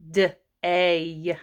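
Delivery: 'D-A' as separate sounds, duh then ay; sounded-out word. Shown as a demonstration. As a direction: break day into 'D' and a drawn-out 'A'. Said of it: "I hear D".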